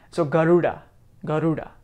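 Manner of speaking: Garuda with retroflex d; Sanskrit Garuda. Shown as a demonstration. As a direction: demo Garuda, curling the tongue for da. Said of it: "So da".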